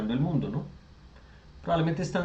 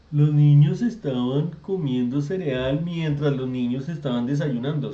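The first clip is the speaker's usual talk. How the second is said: slow, louder, plodding repetition of the sentence; mock clumsy phrasing; 5 dB louder, slower than usual. Shown as a demonstration. Teacher to class, mocking a clumsy repeated sentence, slow. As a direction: drag it out like someone clumsy saying it badly. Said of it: "uno no habla así como un sopenco".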